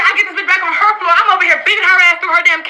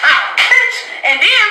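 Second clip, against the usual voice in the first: higher-pitched cry breaking into a laugh; amused outburst; 7 semitones higher, much slower than usual. Real, not acted. Retelling the roommate's jab, laughing yelp. Reliving getting hit.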